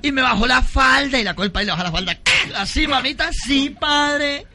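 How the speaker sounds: put-on high coy girlish voice; girl's voice. Young woman confessing to priest, high coy voice.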